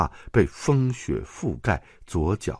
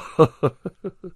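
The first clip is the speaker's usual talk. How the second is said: chuckle; 9 semitones higher, 4 dB louder than usual. Acted. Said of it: "他咯咯地笑着".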